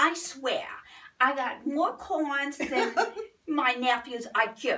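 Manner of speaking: Brooklyn New York street accent, put-on. Actor demonstrating the accent learned for a character role, Brooklyn accent. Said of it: "learning Brooklyn accent".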